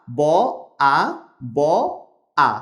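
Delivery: ব, আ, ব, আ said as separate slow sounds with pauses; sounds split apart. Shown as a demonstration. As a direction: break বাবা into single letters. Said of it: "এখানে চারটি বর্ণ রয়েছে". (বর্ণ আলাদা করে থেমে থেমে বলা)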